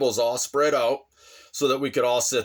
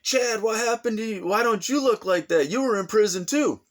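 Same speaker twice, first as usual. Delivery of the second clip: teasing women; 9 semitones higher than usual. Retold or imitated. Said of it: "So then they're like".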